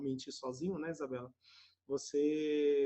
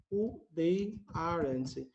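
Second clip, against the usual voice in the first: slow model; much slower than usual. Shown as a demonstration. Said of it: "abreviado vai ficar".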